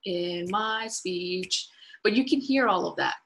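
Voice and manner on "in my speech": slow, lilting up and down; sing-song rhythm. Shown as a demonstration. Showing the audience a lilting speech rhythm. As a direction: let the voice rise and fall slowly. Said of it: "my voice is going up and down".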